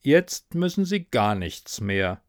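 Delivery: slow, unmoved delivery; pitiless. Acted. Narrator finishes off wailing ghost, slow and pitiless. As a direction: state it slowly, without sympathy. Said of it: "sagte ich mitleidlos".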